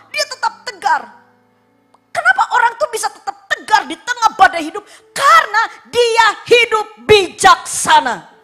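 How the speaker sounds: high, loud exhortation; forceful preaching. Real, not acted. Preacher explaining steadfastness, loud and high.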